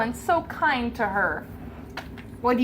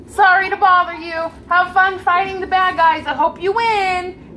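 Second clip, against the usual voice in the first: puppy voice; 7 semitones higher, 5 dB louder than usual. Acted. Puppy speaking to mouse.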